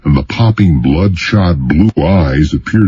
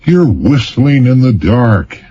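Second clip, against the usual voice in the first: contemptuous; 8 semitones higher than usual. Acted. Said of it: "Deacon said contemptuously".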